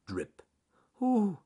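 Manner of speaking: dripping noise with a high "ooh"; plain drip, then a squeaky little ooh; Ernest Fluffy Rabbit. Acted. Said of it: "said Ernest Fluffy Rabbit".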